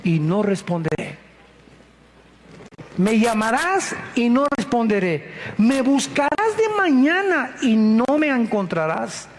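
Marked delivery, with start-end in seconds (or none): 3.0-9.3 stern warning. Acted. God's warning from Proverbs.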